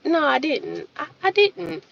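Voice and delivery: soft, hushed denial; softly as I could. Retold or imitated. Telling the rude girl she refused, quietly and softly. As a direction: keep it gentle and soft. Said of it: "I said it as softly as I could".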